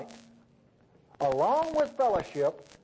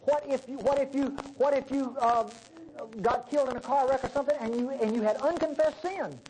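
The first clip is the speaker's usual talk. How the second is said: mock worried believer; 6 semitones higher than usual. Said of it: "Well, you say".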